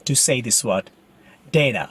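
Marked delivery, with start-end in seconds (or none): 1.6-1.8 "data" as DAY-tuh; most common pronunciation. Shown as a demonstration. Teacher recommending how you say it, common pronunciation. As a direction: say "data" with a long "ay". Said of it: "The most common pronunciation is".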